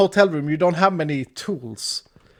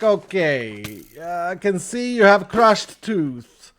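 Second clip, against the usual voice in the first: put-on Russian accent; slower than usual. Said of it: "he had a slight Russian in his accent".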